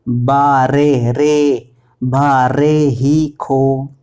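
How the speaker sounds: "बारे" slow, ending in a long re; corrected pronunciation. Shown as a demonstration. Teacher correcting a misreading, slow drawn-out re. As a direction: stretch "रे" clearly, not ri. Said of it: "अब इसको वारे, वारी नहीं".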